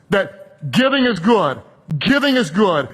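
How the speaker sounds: firm, emphatic preaching; without any weakness. Real, not acted. Preacher telling the congregation that giving is good, firmly emphatic. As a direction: drive it home with measured, unwavering conviction. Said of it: "without any weakness in my voice".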